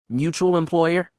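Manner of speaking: slow, questioning repeat of mutual; puzzled echo. Acted. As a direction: echo it back, intrigued. Echoing a puzzling phrase.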